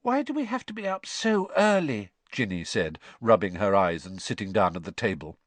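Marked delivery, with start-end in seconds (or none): 0.0-2.1 put-on high-pitched girlish whine; tired, plaintive question; drowsy. A narrator's reading. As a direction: complain as a sleepy young girl. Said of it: "both looking pale and drowsy".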